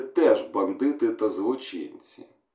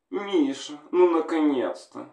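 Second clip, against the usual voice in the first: higher woman on the phone, relieved; wife on the phone greets her husband, higher female voice; woman's voice; 6 semitones higher than usual. Acted. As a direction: voice a wife hearing her man at last. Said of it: "Хлопчик почув жіночий голос".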